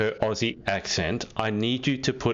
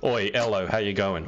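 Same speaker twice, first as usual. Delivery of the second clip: Australian accent; 2 semitones lower than usual. Shown as a demonstration. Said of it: "greet everyone ... with".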